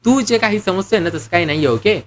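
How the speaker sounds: restrained acted annoyance; angry correction. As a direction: cut in, a touch angry. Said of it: "तो रागाने".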